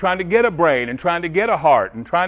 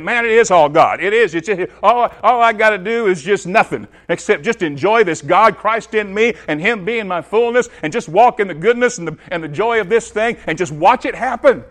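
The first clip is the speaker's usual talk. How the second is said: excited, raised voice tumbling onward; louder, higher, caught up in enjoying it; joyful realization; 4 semitones higher, 5 dB louder than usual. Acted. Preacher voicing a believer rejoicing in God's fullness, excited.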